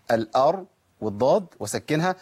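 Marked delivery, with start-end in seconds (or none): 0.1-0.7 "الأرض" built up, thick R with no vowel after it; heavy still R. Shown as a demonstration. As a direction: pause on the emphatic R of "الأرض". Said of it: "لازم أفخم الراء وأسكنها". ("الأرض" بتفخيم الراء وتسكينها)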